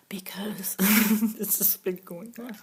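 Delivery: choked up. Real, not acted. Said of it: "I'm getting all choked up".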